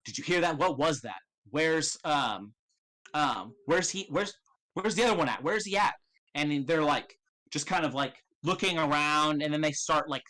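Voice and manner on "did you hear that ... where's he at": guard voice. Acted. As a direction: alert guard, rising pitch. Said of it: "you hear them saying".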